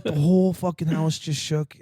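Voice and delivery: slow, incredulous echo; feigned disbelief. Retold or imitated. Prankster playing innocent to spooked buddy, feigned disbelief. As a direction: repeat it back slowly as if it's nonsense.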